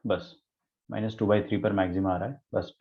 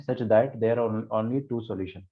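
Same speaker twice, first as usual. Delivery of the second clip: slow dictation; much slower than usual. Shown as a demonstration. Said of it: "dictating the question again".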